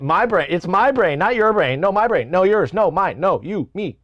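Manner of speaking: high, loud mock argument; playful bickering. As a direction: squabble back and forth playfully. Bickers with himself over brain.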